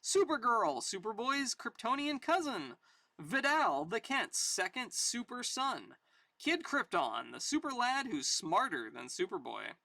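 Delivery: lively announcer hype, pitch lifted; comic ad read. Acted. Reader hyping Superboy's super guests, announcer style. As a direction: sell it like an excited announcer.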